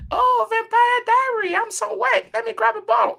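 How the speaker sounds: very high, loud mock squeal; hammed-up falsetto gush over a bottle; gushing shopper impression. Imagined shopper swooning at the shelf, gushing in falsetto.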